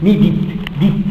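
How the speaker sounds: "Need it" broken down to "Dit"; linking demonstration. Shown as a demonstration. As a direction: carry the D of "Need" onto "it". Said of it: "Notice the D is with the it".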